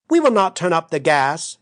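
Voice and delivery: lightly emphatic, with a hidden meaning; pointed emphasis. A narrator's reading. Sister hinting privately to her sister, pointed emphasis. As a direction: say it as a veiled signal. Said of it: "with an emphasis intended to convey private information".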